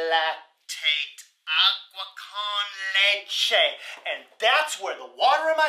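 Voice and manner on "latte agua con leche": drawn-out mystical chant; slow magic incantation. Acted. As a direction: intone it like a spell.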